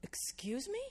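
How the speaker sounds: puzzled "come again?" tone; baffled question. Retold or imitated. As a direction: pitch sweeping up in disbelief. Baffled reply to the man.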